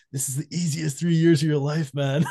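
laughing through a high, put-on quote. Teasing a friend with his own old advice, laughing. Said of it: "I remember you saying to us".

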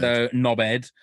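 knobhead said as nobhead, no H sound; dropped H. Shown as a demonstration. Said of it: "pronounced without the H".

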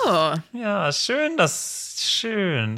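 mock-pleased jab; needling sarcasm. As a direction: tease him before blowing up. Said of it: "der Versuch, noch mal ihn so richtig zu piesacken".

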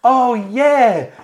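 high, gushing imitation of the host; gushing hostess. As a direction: put on a high eager host voice. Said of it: "and then she goes".

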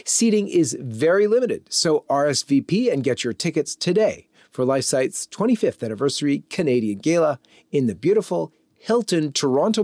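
measured, scripted event announcement; announcer reading a ticket plug; promo read. Acted. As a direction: read it like a polished radio ad. Reads a gala promo.

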